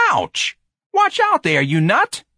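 very high, loud angry yelp; hurt boy yelling abuse; pained yell. A narrator's reading. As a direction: yell at the man who rammed you. Boy rammed by cart.

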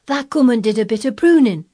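high, loud realisation; crying out. A narrator's reading. Dickon solving the pruning puzzle, crying out. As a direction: cry it out in Yorkshire. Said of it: "cried Dickon".

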